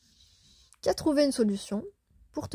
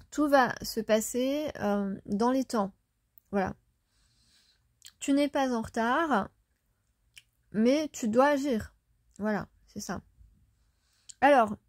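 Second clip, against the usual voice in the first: talking while chewing gum. Real, not acted. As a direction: speak around a wad of gum. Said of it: "parler avec un chewing-gum dans la bouche".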